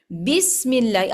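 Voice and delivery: slow بسم with the i drawn out; stretched vowel. Shown as a demonstration. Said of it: "آپ نے ایک حرف کو ایسے بڑھا دیا". (بسم میں زیر کو کھینچ کر)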